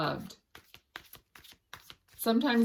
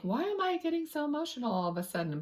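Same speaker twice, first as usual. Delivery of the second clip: higher, quicker bewildered self-question; a viewer suddenly emotional, wondering why, in a higher quick voice; puzzled inner voice; 8 semitones higher, faster than usual. Retold or imitated. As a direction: play someone caught off guard by their own tears. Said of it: "and you think".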